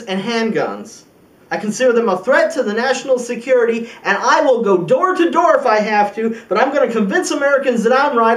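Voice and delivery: emphatic political pledge, building in conviction; forceful vow. Acted. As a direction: drive the promise home to the crowd. President vows to fight for law.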